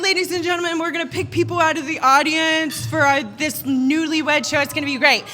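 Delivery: lightly voiced MC working the audience; show MC. MC picking people from the audience, lightly imitated host patter. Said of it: "the M C was like".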